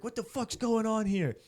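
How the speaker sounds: high-pitched mock scream; retold dad's scream. Dad confronting the party, high mock scream. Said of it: "like, this dad screams".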